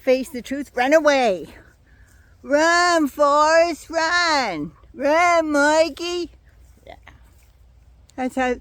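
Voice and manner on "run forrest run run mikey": higher, louder mock cheer of run Forrest run; sarcastic cheer at a fleeing politician. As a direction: egg him on like the Forrest Gump crowd.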